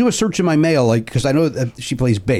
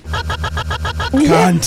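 sultry narrator; 5 semitones higher than usual. Pretend. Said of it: "I should just say cunt in a sexy voice?".

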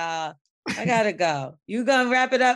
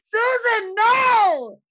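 laughing shout; 9 semitones higher, much slower than usual. Real, not acted. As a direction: yell her name in laughing disbelief. Yelling at woman on stream.

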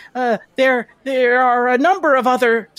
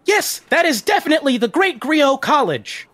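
lightly voiced helpful guide, higher pitched; city guide; 4 semitones higher than usual. Guide answers a visitor seeking old history, in a higher character voice. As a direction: answer as an eager-to-help city guide, voice lifted a little.

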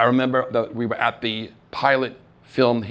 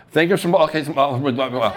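tongue-tied mash of thanks, higher and louder; flustered jumble; 4 semitones higher, 4 dB louder, faster than usual. Retold or imitated. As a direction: stumble over the words in a nervous rush. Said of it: "it came out".

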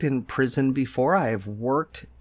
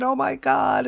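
imitated exasperation; 12 semitones higher, 3 dB louder than usual. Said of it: "of course he's upset".

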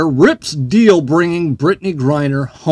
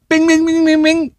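mocking bings; 12 semitones higher than usual. Real, not acted. Ticking off three things, mocking.

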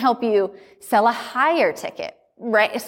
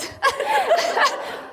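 real high burst of laughter; high giggle. Real, not acted. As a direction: crack up again. Laughing again.

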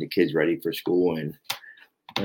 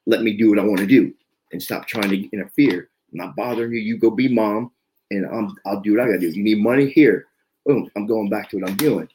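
louder, higher, pushing the wife off; retold angry outburst; 3 semitones higher, 5 dB louder than usual. To his wife, trying to scare her off: louder angry rant. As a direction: bark it to scare her away, a touch fast. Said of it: "just really trying to just scare 'em".

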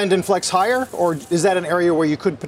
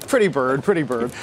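parrot voice; 5 semitones lower than usual. Retold or imitated. Dumb and Dumber Petey parrot bit.

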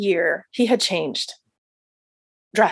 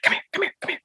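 whispered; 5 dB quieter, much faster than usual. Retold or imitated. Doctor urgently beckons from closet.

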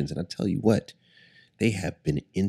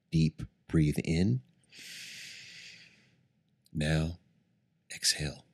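guided meditation. Acted. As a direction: ease them into calm breathing. Leads a guided breathing meditation.

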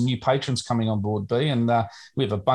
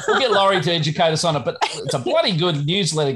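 quick, high and laughing; 5 semitones higher than usual. Real, not acted. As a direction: rush it out while laughing. Laughing after teasing.

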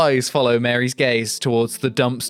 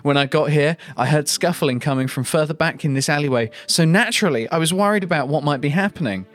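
higher, acted distraught testimony; mock sobbing; 4 semitones higher than usual. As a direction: play the tearful wife lightly. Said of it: "Mary, sobbing".

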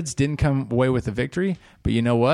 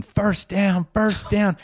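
higher-pitched imitation of a yelled cheer; mock yell; 7 semitones higher, slower than usual. Coach celebrating on the field, mock yell. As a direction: call it out high, without real volume.

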